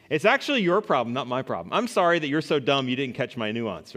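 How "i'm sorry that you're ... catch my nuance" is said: fake apology. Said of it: "really offensive way to ask".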